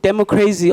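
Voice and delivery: "democracy" said as "demo-crazy"; a musician's wordplay pronunciation. Shown as a demonstration. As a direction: end "democracy" in "crazy", stress on CRAY. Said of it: "or as he calls it".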